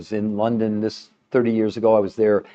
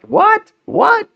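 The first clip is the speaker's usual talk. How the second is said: retold disbelief; 4 dB louder than usual. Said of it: "I was like".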